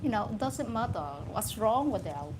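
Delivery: lightly imitated posh British English; posh British accent. Speaker showing how a posh family talks, mock British accent. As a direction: put on a mild upper-class British accent. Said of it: "you are in a posh family".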